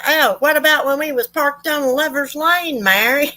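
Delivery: high, sing-song needling question; mocking father-in-law. Father-in-law interrupting a testimonial, high mocking lilt. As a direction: tease her with a sly, high lilt. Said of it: "and was like".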